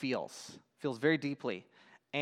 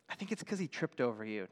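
hushed, lower storybook aside; whispered aside; 3 semitones lower, 7 dB quieter, faster than usual. Acted. Norman confides to Snake why Jim frowns, whispered aside. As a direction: confide it softly, under the story. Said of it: "Norman whispered to Snake".

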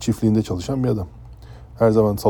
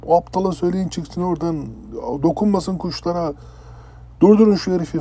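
shrieking yell; 8 semitones higher than usual. Retold or imitated. Captain screaming to stop the chef over the PA, high shriek. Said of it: "falan diye bağırıyor".

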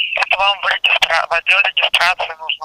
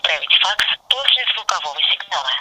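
phone menu voice. Real, not acted. Automated phone menu prompt.

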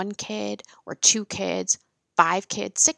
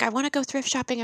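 high and fast, a mock pleading teen; whiny teen daughter; 6 semitones higher, faster than usual. A daughter begging her mom, high and fast mock pleading. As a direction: rattle it off like a nagging kid.

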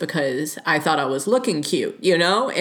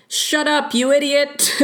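much higher, hammed-up snapping at a catcaller; mock insult; 11 semitones higher, 3 dB louder than usual. Shown as the unproductive reply to catcallers, in a hammed-up snap. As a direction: fling the insult in mock anger. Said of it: "just being like".

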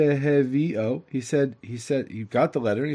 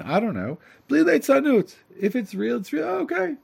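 higher, pressing simple man; earnest simpleton; 6 semitones higher than usual. Acted. Simpleton warns the messenger not to joke, higher and pressing. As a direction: insist eagerly, no jokes.

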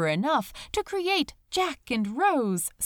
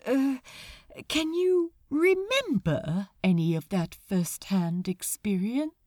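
a touch desperate. Acted. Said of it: "a touch desperately".

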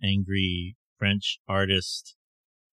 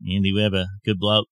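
put-on Australian accent. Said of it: "Down under".

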